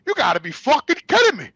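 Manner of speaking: retold outraged retort; indignant disbelief. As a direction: act out accusing her, voice lifted. Retold confrontation with mother.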